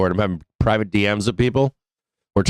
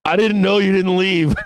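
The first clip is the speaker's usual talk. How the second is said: sheepish dog voice; 10 semitones higher than usual. Retold or imitated. Aussie Shepherd voiced, caught.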